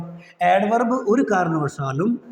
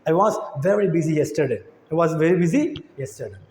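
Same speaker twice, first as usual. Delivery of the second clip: slow model sentence; 4 semitones lower, much slower than usual. Shown as a demonstration. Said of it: "teacher models English sentence".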